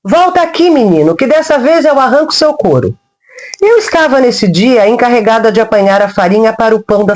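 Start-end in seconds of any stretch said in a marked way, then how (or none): 0.0-2.9 put-on raised, higher voice scolding a runaway boy; angry servant yelling at a runaway child; threatening yell. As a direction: threaten him as you chase him. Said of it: "ia ameaçando com a vara".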